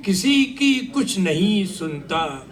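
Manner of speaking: measured phrases with pauses between them; poem recitation. Acted. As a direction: declaim a narrative poem to the room.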